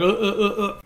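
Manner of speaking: stuttered, jerky "uh" noises; imitated malfunction stutter. Recapping how the malfunctioning host shakes, imitated stutter. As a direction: mimic a shaking, glitching robot. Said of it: "he's all shaking".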